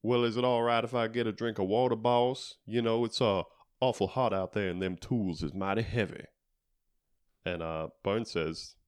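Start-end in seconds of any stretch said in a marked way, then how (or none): 0.0-6.2 lightly put-on Southern accent, a little quicker. Clark asks his boss for water, light Southern accent. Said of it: "puts on a southern accent".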